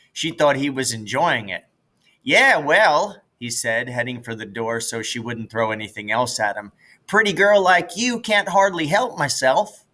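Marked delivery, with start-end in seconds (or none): 2.2-3.2 higher, louder teasing start; teasing brother. Acted. Jess teasing his sister on his way out. 7.1-9.8 higher, louder hammed-up compliment; mock flattery. Jess teasing his sister with mock flattery.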